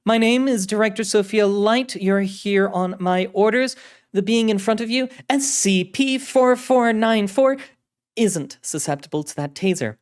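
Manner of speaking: high, loud, commanding voice; authoritative director. Acted. Director orders agent over the communicator, high, authoritative voice. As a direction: state your rank and take charge.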